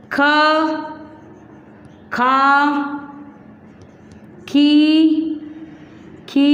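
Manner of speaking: each syllable with long pauses; slow syllable drill. Shown as a demonstration. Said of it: "बोलो". (ख के अक्षर रुक-रुक कर बोलना)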